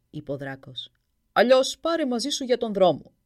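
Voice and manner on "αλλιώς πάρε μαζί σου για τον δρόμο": huge dragon reassuring the prince, much louder; booming dragon. Acted. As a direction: boom it kindly from high above. Dragon offers food.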